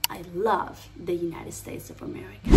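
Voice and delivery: "America" soft, with closed vowels; soft R with flow. Shown as a demonstration. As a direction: glide gently through "United States of America". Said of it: "R suavecita, metan el flow".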